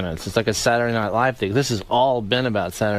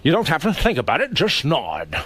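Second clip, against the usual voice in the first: Sean Connery impression; 4 semitones higher than usual. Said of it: "the line I keep doing with Sean Connery".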